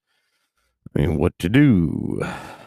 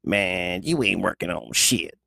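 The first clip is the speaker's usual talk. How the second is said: judgmental phrase; slower than usual. Retold or imitated. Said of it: "that judgmental phrase".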